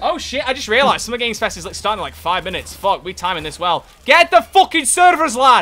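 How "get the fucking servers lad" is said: put-on Scottish accent, very high, shrill and loud. A player calls out to a teammate mid-game, in a Scottish accent. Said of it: "Why am I Scottish?".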